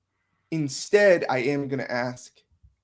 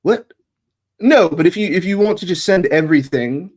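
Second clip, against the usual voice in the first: caught-out mother; 6 dB louder than usual. Acted. Mother caught asking for the birth date, flustered. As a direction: cover your tracks in a hurry.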